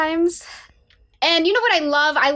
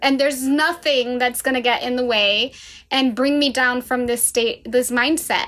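naive elated self. Retold or imitated. Mocking her naive past self.

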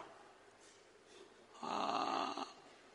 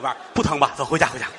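1 mild coaxing; faster than usual. Acted. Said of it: "俩人出去了，说".

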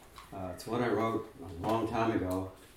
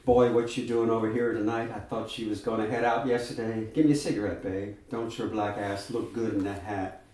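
put-on sassy young woman; 4 dB louder than usual. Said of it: "Her lilting nasal squeal descends into rapid-fire".

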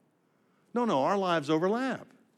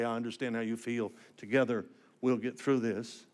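much softer, hushed reassurance; gentle comfort; 5 semitones lower, 5 dB quieter than usual. Shown as a demonstration. Preacher showing the crowd how to comfort a grieving friend, soft and tender. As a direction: say it quietly, as if holding someone's hand. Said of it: "reach out to other people ... and say".

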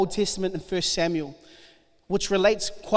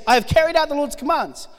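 smug Saul; 6 semitones higher, faster than usual. Retold or imitated. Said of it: "So he says".

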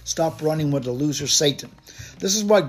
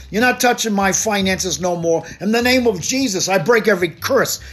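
bold declaration. Shown as a demonstration. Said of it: "This is how you talk".

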